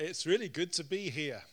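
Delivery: ordinary delivery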